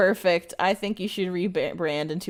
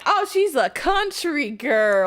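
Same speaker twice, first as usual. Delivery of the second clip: imitated remark; 6 semitones higher, 4 dB louder, slower than usual. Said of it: "she's like".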